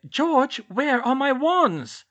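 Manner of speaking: insistent, loud and very slow; urgent. A narrator's reading. Hermione pressing George about her wands, slow urgent demand. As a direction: climb high and stretch out the demand. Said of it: "she said urgently".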